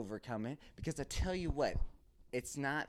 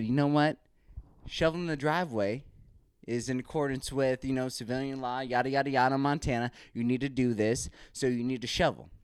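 louder, firm mock-official lecture; retold lecture to wife; 4 dB louder than usual. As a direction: lay down the law to your wife, loud and firm. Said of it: "So I flipped it on her. I said".

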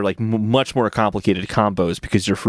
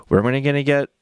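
noir voice. Retold or imitated. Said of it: "told in, like, a noir voice".

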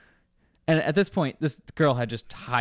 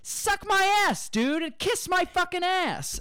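mock angry storyteller. Someone retelling a grudge to a friend, in a hammed-up, much higher outraged voice. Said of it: "super fucking pissed".

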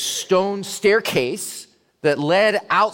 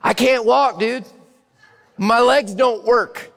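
louder and higher, insistent protest; exasperated complaint; 7 semitones higher, 4 dB louder than usual. Acted. Man on the mat to Jesus, loud exasperated protest. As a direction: vent your frustration at Jesus. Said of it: "if I were the guy in the mat".

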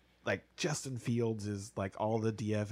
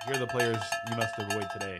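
town crier; 4 dB louder, faster than usual. Pretend. Continues herald announcement.

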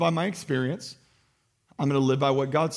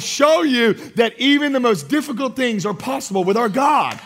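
emphatic, higher-pitched proclamation; full-force preaching; 6 semitones higher, 3 dB louder than usual. Real, not acted. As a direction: declare it boldly to the congregation.

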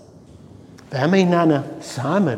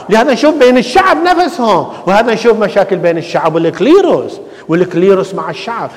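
higher-pitched, driving sermon delivery; impassioned preaching; 5 semitones higher, 3 dB louder than usual. Real, not acted. Preacher listing church quarrels to the congregation, impassioned. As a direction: press each repeated complaint home to the congregation.

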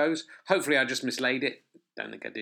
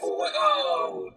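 robot voice. Shown as a demonstration. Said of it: "no, I've done it in the robot voice".

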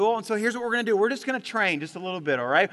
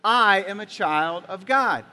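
louder, slow unison declaration; congregation declaration; 5 dB louder, slower than usual. Shown as a demonstration. Preacher leads the church in a slow, loud declaration. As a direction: proclaim it boldly with the room. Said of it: "Can you all say that with me together".

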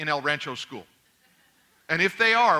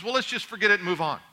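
quick, breezy imitation of a wife; dismissive wife; 3 semitones higher, faster than usual. Wife wanting to end a spat with husband, breezily dismissive. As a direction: brush the argument aside briskly. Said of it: "She says".

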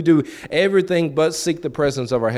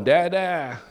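put-on higher, drawn-out toddler call; 5 semitones higher, much slower than usual. Little Cohen calling for his father, drawn-out. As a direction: call for dada like a little one. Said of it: "even now with Cohen".

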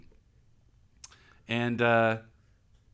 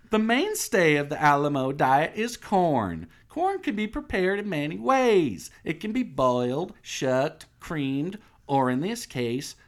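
higher, chirpy guide patter; fake tour guide; 7 semitones higher than usual. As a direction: list it off like a rehearsed tour. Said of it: "fake-ass tour guide".

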